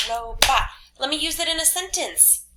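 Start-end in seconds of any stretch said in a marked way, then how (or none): 0.1-0.7 "Robot" in two louder beats, ro and bot; syllable by syllable. Shown as a demonstration. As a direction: count out both chunks of "Robot". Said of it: "Two syllables".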